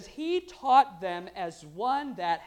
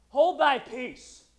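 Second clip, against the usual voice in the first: mock scream; 5 dB louder, much slower than usual. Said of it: "screams at him and he says".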